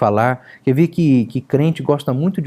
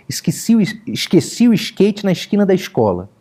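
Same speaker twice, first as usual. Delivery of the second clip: Rio accent, "esqueci o skate" with s turned to sh, a bit higher; carioca hissing S; 5 semitones higher than usual. Shown as a demonstration. Pastor imitating a carioca chatting casually, Rio accent. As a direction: chiar like a pressure cooker, carioca style. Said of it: "ele chia que nem panela de pressão".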